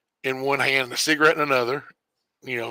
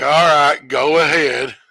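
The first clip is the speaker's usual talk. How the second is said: coach giving in; 6 dB louder, slower than usual. Retold or imitated. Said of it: "And he was like".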